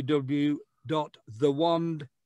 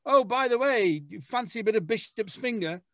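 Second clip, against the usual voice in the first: higher, cheeky British pub banter; cheeky British accent; 7 semitones higher than usual. Retold or imitated. Playfully offering a pint in a cheeky British accent. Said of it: "I like that accent".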